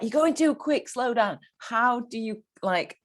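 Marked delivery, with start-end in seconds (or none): 0.0-1.4 higher-pitched acted telling-off; exasperated complaint. Host voicing her complaint to a riding partner, exasperated.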